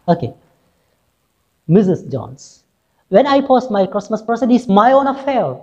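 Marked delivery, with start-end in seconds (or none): 3.1-5.6 mildly rude. Acted. Rude reply in acted dialogue.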